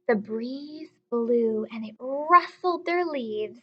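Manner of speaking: put-on storytime voice for children; teacher reading a story aloud. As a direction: read it like a picture book, unhurried. Reads story aloud to class.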